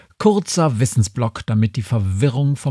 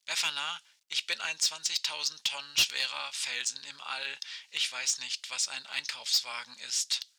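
crackling radio voice, much softer; like a far-off voice over a walkie-talkie; old rotary phone; 16 dB quieter than usual. Acted. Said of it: "Aisches Stimme knarzt durch das Funkgerät".

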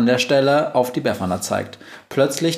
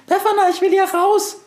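extremely high, panicked mouse squeal; tiny creature crying out, very high; squeaking mouse; 3 dB louder than usual. A narrator's reading. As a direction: squeal to be let out. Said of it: "quiekt die Maus".

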